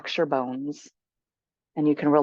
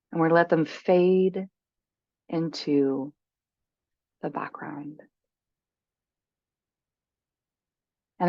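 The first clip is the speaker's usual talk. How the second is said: guided meditation. Acted. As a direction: guide them gently into stillness, unhurried.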